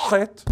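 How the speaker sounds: CHET opened with a long, raspy throat-clearing "kh"; expectorated Semitic sound. Shown as a demonstration. Lecturer showing a sound revived Hebrew lacks, expectorated consonant. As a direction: hawk up the first sound of chet. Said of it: "The expectoration, if you expectorate as a Semite".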